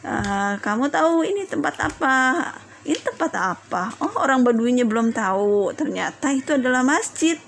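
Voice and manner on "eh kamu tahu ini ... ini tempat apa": mild, kindly questioning; gentle admonishing. Acted. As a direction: ask gently, as if guiding someone who doesn't know. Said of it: "menasihatinya dengan lembut".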